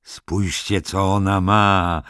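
uradowany, wyższy głos; zawołaj z uciechą, przeciągając koniec; uradowanie. A narrator's reading. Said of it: "ucieszył się pan Tarkle". (ucieszony okrzyk)

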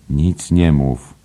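slow, knowing hush; secretive wink. Acted. Bantam Lyons hushing Flynn about the tip, slow and knowing. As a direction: say it slowly with a wink. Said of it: "Bantam Lyons mrugnął".

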